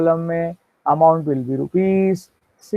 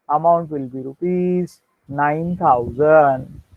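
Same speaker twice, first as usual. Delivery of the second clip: slow, deliberate dictation so students can write; dictation pace; much slower than usual. Shown as a demonstration. Teacher dictating the entry to students, slow and deliberate. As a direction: spell out each entry word by word.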